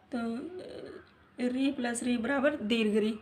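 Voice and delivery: slow, even teacher's explanation of री plus री बराबर दीर्घ री; slow explaining. Shown as a demonstration. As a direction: spell out "री प्लस री बराबर दीर्घ री" slowly, word by word. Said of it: "क्या हो जाएगा?". (धीमे, समझाते हुए)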